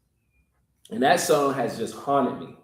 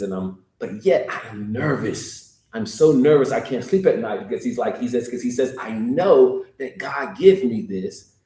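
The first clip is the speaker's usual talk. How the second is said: 1 retold nervous confession; 3 semitones lower than usual. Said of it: "And he says".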